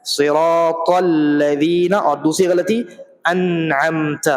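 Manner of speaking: slow, drawn-out tajweed recitation; Quran recitation. Shown as a demonstration. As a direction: recite it slowly and melodically. (آہستہ، کھینچ کر تلاوت)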